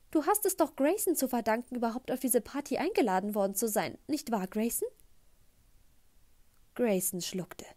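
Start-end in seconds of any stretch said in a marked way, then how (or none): 0.1-4.9 high, beaming mom voice; mother beaming at her future stepson; gushing mother. Acted. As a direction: gush it at the boy, all sweetness. Mom presses Grayson.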